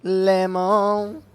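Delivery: "lemon" said high with a rising end, as "læmo"; funny pronunciation. Shown as a demonstration. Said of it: "Why would you want to say it like that".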